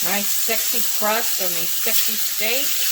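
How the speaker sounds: slow, drawn-out admiring oohs; cooking show host. Real, not acted. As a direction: savor each word like a food host. Admiring seared steaks on camera.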